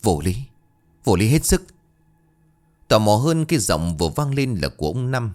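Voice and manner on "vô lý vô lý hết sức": phẫn nộ. A narrator's reading. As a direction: protest angrily, building in pitch and force. Father protests angrily outside. (bực tức kêu lên)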